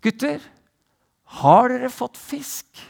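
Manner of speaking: high call across the water. Acted. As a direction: call out to the boys in the boat. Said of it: "roper han ut til gutta". (roper ut til fiskerne)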